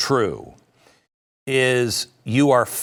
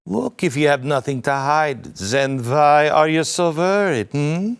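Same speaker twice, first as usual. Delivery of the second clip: put-on German accent; 3 semitones higher than usual. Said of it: "not in a French accent, but maybe a German".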